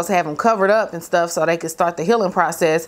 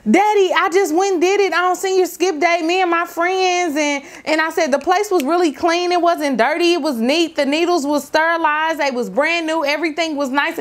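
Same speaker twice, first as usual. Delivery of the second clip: much higher, breathless pleading; pleading daughter; 9 semitones higher than usual. Retold or imitated. Daughter defending her tattoo to her father, pleading. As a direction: talk fast to calm an angry dad.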